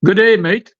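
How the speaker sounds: put-on Australian accent, slightly British; a quick Australian "good day, mate"; Aussie accent. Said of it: "give me your best Aussie accent".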